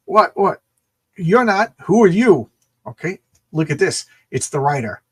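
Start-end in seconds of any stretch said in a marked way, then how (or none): 0.1-2.5 loud, higher acted alarm; raised, startled questioning; startled challenge. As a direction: challenge a stranger in sudden surprise. Acting a startled gang member's challenge.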